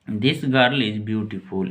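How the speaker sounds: put-on This girl is beautiful said very slowly, word by word; slow model sentence; slow dictation. Shown as a demonstration. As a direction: read it slowly for learners. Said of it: "इसको बोलेंगे this".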